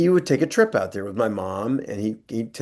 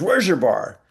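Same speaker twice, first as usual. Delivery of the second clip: higher, hammed-up disgusted outburst; mock disgust; 8 semitones higher, 3 dB louder, slower than usual. Actor tasting a weak Bloody Mary, mock disgust. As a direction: spit it out like a drink gone wrong. Actor demands the real bar.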